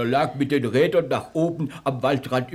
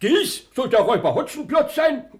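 loud, high scornful disbelief; scoffing disbelief; 8 semitones higher, 4 dB louder than usual. Acted. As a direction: scoff at the idea.

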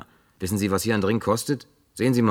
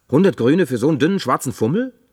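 empörtes Staunen; 5 semitones higher, 5 dB louder than usual. Acted. Barmann empört über Preis.

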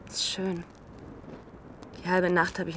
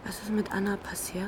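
anxious voiceless whisper; 10 dB quieter than usual. Acted. Girl secretly asks what happened to Anna, whispering. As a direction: whisper the question, afraid of the answer.

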